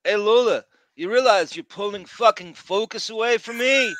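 loud, high mock yell at a co-star; retold angry yelling. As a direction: imitate an actor blowing up. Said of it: "That's what it sounds like".

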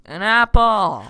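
high, loud shout of discovery; excited shout. Real, not acted. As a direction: cry it out, pitch leaping up. Delighted outcry at game find.

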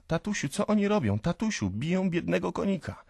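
put-on high, distressed child's voice; little boy calling. A narrator's reading. Boy begging father over the beaten horse, pleading. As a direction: plead with daddy in a small, high voice. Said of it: "woła mały Rodion do ojca".

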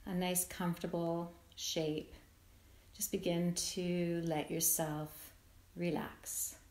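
calm, unhurried meditation voice with long pauses; guided meditation. Acted. Yoga nidra teacher settling listeners into rest, guided meditation. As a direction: ease them gently into letting go, leaving space between phrases.

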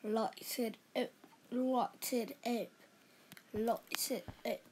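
put-on soft, lightly done British accent; attempted British accent. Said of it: "you're not talking like a proper British man".

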